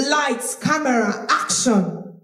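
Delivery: projected call with a relaxed throat; controlled, supported stage projection; shouting from the stomach. Shown as a demonstration. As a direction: project from the belly, throat at ease. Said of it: "I'm shouting, but my throat is intact".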